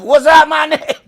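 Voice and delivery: lightly hammed-up cool greeting; mock cool greeting. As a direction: greet like it's the coolest thing. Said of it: "it's the coolest thing ever".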